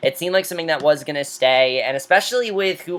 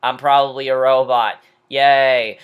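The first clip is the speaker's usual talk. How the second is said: robotic Audrey; 3 semitones lower, 4 dB louder than usual. Retold or imitated. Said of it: "Talk in this robotic voice".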